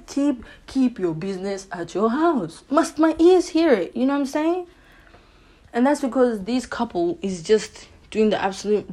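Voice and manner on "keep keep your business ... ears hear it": slow, drawn-out mock telling-off; acted-out exasperated bystander; mock scolding. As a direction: tell off noisy neighbours, rising to a high question. Scolding the noisy couple, acted.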